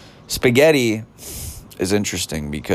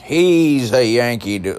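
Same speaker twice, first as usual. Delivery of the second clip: put-on higher, louder stab at an English accent; failed English accent; 5 semitones higher, 4 dB louder than usual. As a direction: try an English accent, not quite landing it. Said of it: "I can't do an English accent".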